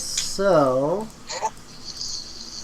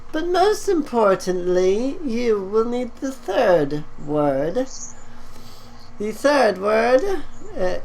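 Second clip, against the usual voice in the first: skeleton voice; 4 semitones higher than usual. Acted. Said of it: "he says".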